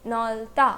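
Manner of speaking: नॉल्ता split as low नॉल, then ता; pronunciation demo. Shown as a demonstration. Teacher answers how the word is pronounced, sounding out नॉल्ता by syllable. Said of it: "word का pronunciation क्या हुआ".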